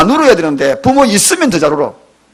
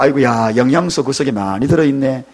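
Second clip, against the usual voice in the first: amused listener; 7 semitones lower, 4 dB quieter than usual. Retold or imitated. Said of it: "이 이야기하니까".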